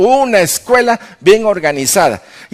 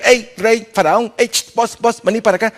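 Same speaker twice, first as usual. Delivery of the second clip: mock calling out; 3 semitones higher than usual. Magicians calling Pharaoh over.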